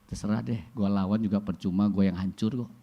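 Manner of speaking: resigned soft sigh of defeat. Retold or imitated. Parents giving up.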